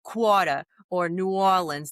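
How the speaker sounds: light New Orleans Yat accent. Shown as a demonstration. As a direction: let a bit of Yat slip into the words. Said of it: "the bit of the Yat accent".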